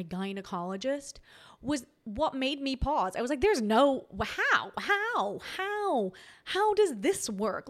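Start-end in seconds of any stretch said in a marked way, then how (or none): 3.4-7.7 stammering, rising higher in shock; stunned disbelief. Retold or imitated. Retelling her shock at seeing him walk in as her gynecologist, stammering in disbelief. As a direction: sputter out each how in baffled disbelief.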